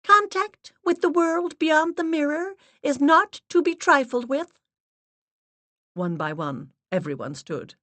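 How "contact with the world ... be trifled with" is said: high, grave, steady voice; solemn medium's assistant. Acted. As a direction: speak like a severe séance guide. Assistant's held voice.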